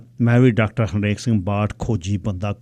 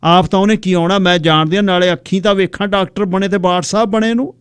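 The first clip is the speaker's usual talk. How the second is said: talking fast; 7 semitones higher, 4 dB louder than usual. Acted. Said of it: "ਤੇਜ਼ ਬੋਲਦੀ ਸੀ".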